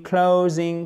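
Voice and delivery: "Closing" with the O as a gliding diphthong. Shown as a demonstration. Teacher showing learners the word, "Closing" with a diphthong O. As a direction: glide through the O of "Closing". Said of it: "c'est une diphtongue".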